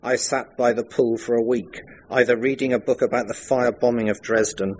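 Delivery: measured, fluent story reading; memoir read aloud. A narrator's reading. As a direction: read your own story to an audience.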